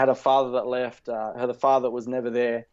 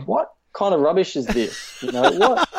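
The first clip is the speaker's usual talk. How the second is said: mocking scoff; 6 semitones higher, 4 dB louder than usual. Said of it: "And I'm thinking".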